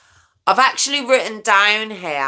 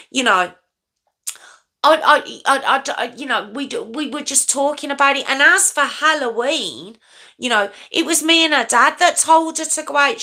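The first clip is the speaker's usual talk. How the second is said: higher voice, stumbling; higher flustered stammer; 7 semitones higher than usual. Retold or imitated. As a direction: stammer it out defensively. Mimicking the mum's stammering.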